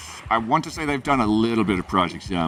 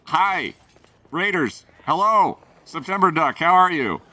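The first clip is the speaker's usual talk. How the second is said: 1 excited greeting; 6 semitones higher, 3 dB louder than usual. Real, not acted. Greeting raiders loudly.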